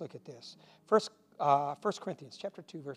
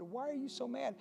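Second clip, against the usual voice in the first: fired-up question; 9 semitones higher, 4 dB quieter than usual. Retold or imitated. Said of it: "I was full of the Holy Spirit".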